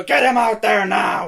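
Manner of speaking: slow, loud boss shout. Retold or imitated. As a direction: bark the order. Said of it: "he's not meant to go".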